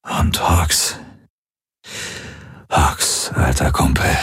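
put-on breathy half-whisper to an old friend. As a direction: whisper it weakly from the sickbed. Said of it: "flüsterte er".

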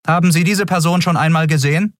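guard interrogating. A narrator's reading. Guard shows wanted picture.

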